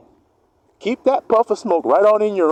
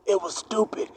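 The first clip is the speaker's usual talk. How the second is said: coughing admission; 5 semitones higher, 8 dB quieter than usual. Retold or imitated. Fried fool admits it, coughing.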